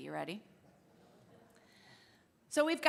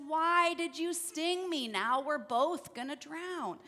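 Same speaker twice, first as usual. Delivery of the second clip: dismayed reproach; 3 semitones higher than usual. Acted. Frog reproaches scorpion while drowning.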